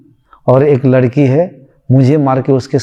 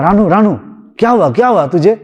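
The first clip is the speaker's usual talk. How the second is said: higher, urgent mock alarm; panicked husband; 4 semitones higher than usual. Husband rushes to wake his screaming wife, mild panic. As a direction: call her name as if rousing her. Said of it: "पति उस room में घबरा गया".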